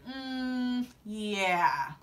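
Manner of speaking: drawn-out, unconvinced mock agreement; skeptical reaction. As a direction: imitate relatives trading doubtful looks. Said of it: "looking at each other like".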